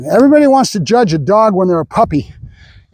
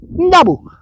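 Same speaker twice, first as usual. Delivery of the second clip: high, drawn-out command; dog command; 9 semitones higher than usual. Real, not acted. Trainer cueing his dog, high drawn-out command. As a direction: sing the cue out high.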